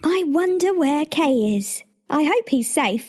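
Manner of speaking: wistful Gerda. Acted. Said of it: "she thought one day".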